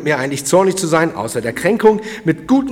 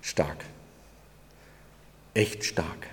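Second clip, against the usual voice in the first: awed whisper; 10 semitones lower, 13 dB quieter, slower than usual. Real, not acted. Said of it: "awed remark".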